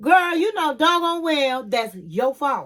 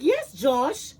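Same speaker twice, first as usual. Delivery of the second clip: higher pleading imitation, quickening at the end; whiny pleading; 6 semitones higher than usual. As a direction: beg him like a needy girlfriend. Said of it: "she was like".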